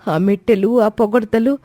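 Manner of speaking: put-on high, hurt young bride, near tears; a betrayed young wife asking in disbelief; hurt daughter-in-law. Komali confronting her mother-in-law, high and hurt.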